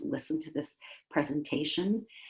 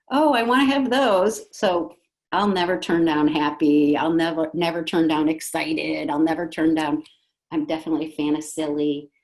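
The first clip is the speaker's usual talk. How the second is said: loud, bright-voiced delight, louder than her talk; eager delight; 7 dB louder than usual. Shown as a demonstration. Speaker showing parents how to embrace happy feelings, loud and eager. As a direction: gush about happy feelings.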